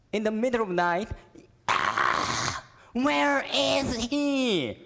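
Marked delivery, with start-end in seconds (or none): 1.7-4.8 loud, slow, high panicked scream; Mary screaming. Acted. Mary screams for her lost son, panicked and loud. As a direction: wail it into the night. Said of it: "you can imagine Mary screaming".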